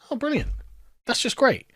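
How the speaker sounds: high, mock-delighted sarcasm; sarcastic praise. Real, not acted. Sarcastic reaction to ruling read out.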